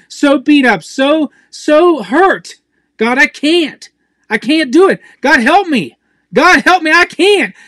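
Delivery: desperate prayer. Shown as a demonstration. Preacher showing the congregation how to cry out to God, pleading. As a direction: pour it out to God, hurt and worn down. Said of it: "Let's go back there and say".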